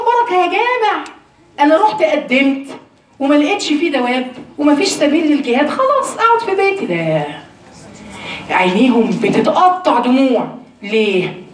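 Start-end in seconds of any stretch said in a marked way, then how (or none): 0.0-6.8 higher voice, mimicking a lame excuse; mock excuse. Preacher to the sisters, mocking the excuse, pitched higher. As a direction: play the shirker excusing herself from jihad.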